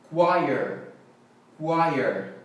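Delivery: "choir" said KWIRE, rhyming with "fire"; correct pronunciation. Shown as a demonstration. Teacher models "choir" for learners, clearly pronounced KWIRE. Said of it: "Então, coral em inglês é".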